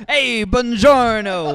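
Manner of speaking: put-on slow hammy Italian accent greeting. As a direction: play a cartoon Italian pizza man. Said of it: "pretending to have an Italian accent".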